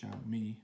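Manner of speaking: Xiaomi said as "SHAU-mee"; approximate Chinese pronunciation. Shown as a demonstration. Vlogger repeating the brand name from a clip, careful pronunciation. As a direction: say Xiaomi slowly, first syllable rhyming with "now". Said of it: "apparently the correct pronunciation is".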